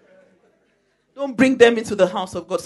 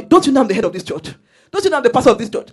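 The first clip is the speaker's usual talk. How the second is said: self-important pastor; 3 semitones higher, 7 dB louder, much faster than usual. Retold or imitated.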